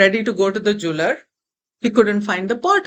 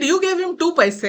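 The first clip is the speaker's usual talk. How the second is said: perplexed; 5 semitones higher than usual. Acted. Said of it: "Arjuna was perplexed".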